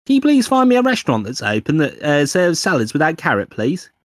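high, loud mock request to a phone; hammed-up polite search request; Okay Google voice. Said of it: "doing the "Okay, Google" voice".

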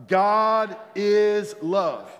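slow, high and loud God is love. Shown as a demonstration. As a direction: proclaim it with full force. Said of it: "One more time".

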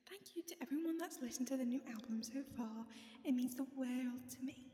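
put-on homemade British accent. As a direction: read the post in an imitation British accent. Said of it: "this is my British accent".

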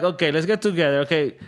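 high-pitched mock Russian accent. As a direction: act out locals with a Russian-sounding accent. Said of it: "I heard the Russian accent".

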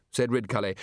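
ordinary delivery

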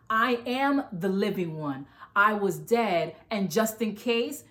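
slow, weighty scripture reading; slow solemn reading. Acted. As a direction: read each phrase slowly and solemnly. Reading Jesus' words slowly.

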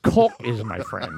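slow, deliberate caulk with the L; careful caulk. Shown as a demonstration. Correcting himself for co-hosts, slow careful caulk. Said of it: "make sure you say that L".

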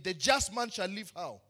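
"the just man shall live how?" said with a firm question to the crowd; prompting question. Shown as a demonstration. Preacher repeating the verse to draw an answer from the church. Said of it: "let me say that again".

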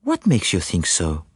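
low, measured Belgian detective; calm Belgian sleuth probing gently; Poirot. Acted. Poirot questions his anxious client, calm and probing.

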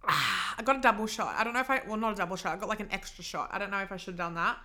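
just swallowed coffee; after a sip of coffee. Real, not acted. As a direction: talk right after a sip. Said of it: "if you hear me sip like this".

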